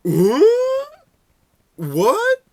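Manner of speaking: high squeaky double take; a stunned squeak, as if you misheard; shocked disbelief. Retold or imitated. Overhearing a shocking trade offer.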